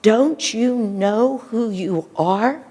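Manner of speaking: slow, firm rousing question; a hint of a commanding elder, drawn out; strong voice. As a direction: wake him up with it, slow and strong. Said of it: "he says them in a very strong voice".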